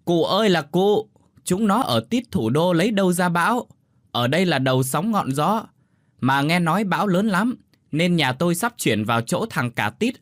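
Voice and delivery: loud, weary insistence; exasperated yelling. A narrator's reading. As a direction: shout in exasperation at a deaf old neighbour. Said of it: "ngán ngẩm gào lên như quát".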